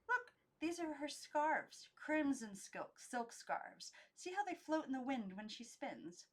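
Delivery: high, slow and enchanted; dreamy doll. Acted. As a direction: linger over the scarves. Christabel describing dancer.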